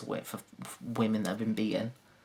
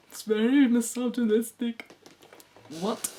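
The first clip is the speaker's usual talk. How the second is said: much higher mocking whine; prissy outrage; offended woman; 10 semitones higher, 3 dB louder than usual.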